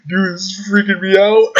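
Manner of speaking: high panicked shout; freaked out shout. Real, not acted. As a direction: yell it half laughing in panic.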